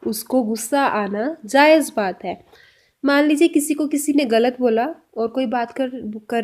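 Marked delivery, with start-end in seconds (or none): 0.1-2.5 slow repeat. Shown as a demonstration. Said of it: "next sentence में हम बोल रहे हैं".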